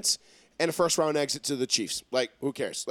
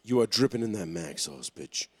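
gloating; 10 semitones lower, 6 dB quieter than usual. Acted. Gloating over a correct prediction.

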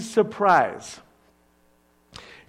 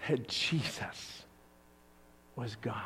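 soft unvoiced whisper, dropped right down; 7 semitones lower, 15 dB quieter than usual. Preacher whispers the climax to the congregation. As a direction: hush it like a sacred secret.

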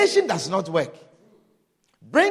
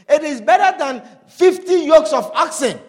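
louder, stress on better, preached out; emphatic proclamation; 4 semitones higher, 6 dB louder than usual. Acted. Preacher promising the congregation something better, emphatic. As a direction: proclaim it so the crowd feels it.

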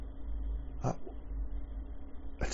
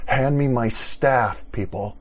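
mock movie Jesus; 6 dB louder than usual. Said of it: "Movie style".

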